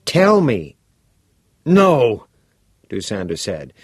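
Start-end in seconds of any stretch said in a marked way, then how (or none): 0.1-0.8 put-on bright, curious teenage boy; a keen schoolboy pressing for details; eager boy voice. Todd demanding. 1.7-2.3 horrified refusal. Acted. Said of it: "unable to hide the horror".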